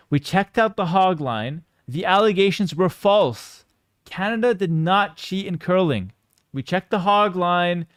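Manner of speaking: slow, deliberate press-statement delivery; mock official ruling. Streamer telling chat the footage review cleared Canada, slow mock-official tone. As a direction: announce the verdict slowly like an official inquiry.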